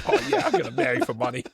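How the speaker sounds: put-on laughing through a thick Boston accent. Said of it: "a wicked bad Boston accent".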